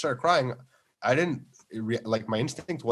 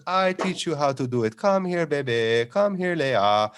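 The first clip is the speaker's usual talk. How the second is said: put-on sing-song Farsi accent; 2 semitones higher, slower than usual. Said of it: "sing-song Farsi accent".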